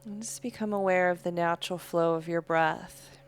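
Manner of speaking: calm, unhurried yoga-teacher voice; guided breathing meditation. Real, not acted. Leads slow breathing meditation.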